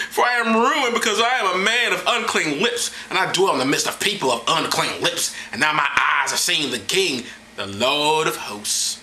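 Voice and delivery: lightly dramatic prophet declaiming; a touch of pulpit theatrics; mock scripture reading. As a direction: read it as grand, measured scripture.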